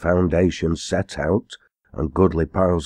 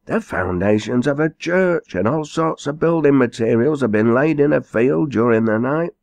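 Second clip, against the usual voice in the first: higher, hurried breathless report; excited messenger; 6 semitones higher than usual. A narrator's reading. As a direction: blurt out the news, winded. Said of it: "cried the panting messenger".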